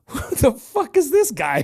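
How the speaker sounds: high-pitched incredulous outburst through a laugh; mock incredulous. Friend silently judging the put-on accent, mock incredulous. Imagined friend's bewildered inner reaction.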